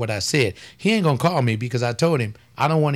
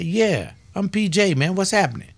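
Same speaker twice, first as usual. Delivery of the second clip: higher, casual mock greeting; 6 semitones higher than usual. Imagined Tone X greeting the preacher, higher. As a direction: play the breezy Tone X. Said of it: "I say".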